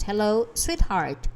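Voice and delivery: lightly voiced Russian woman on the phone; Russian accent. A narrator's reading. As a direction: greet her sweetly in a Russian accent. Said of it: "She had an accent, maybe Russian".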